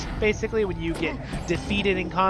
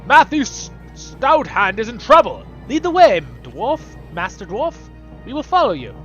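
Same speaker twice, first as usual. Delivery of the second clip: hearty dwarf voice; 4 semitones higher, 7 dB louder than usual. Acted. Reading dwarf NPC dialogue.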